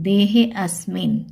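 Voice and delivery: slow देहे अस्मिन with a separate "a"; avagraha as a. Shown as a demonstration. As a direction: keep अस्मिन apart from देहे. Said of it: "क्या बोलेंगे". (धीरे देहे अस्मिन, "अ" साफ़)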